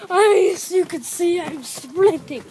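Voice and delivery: put-on German accent, drawn out at the end. Shown as a demonstration. Soldier telling viewers he's sprinting, in a German accent. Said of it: "That was my German accent".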